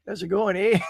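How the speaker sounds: light put-on Canadian accent; a hint of mock Canadian. Shown as a demonstration. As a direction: try a casual Canadian greeting. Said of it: "keeping my accents straight".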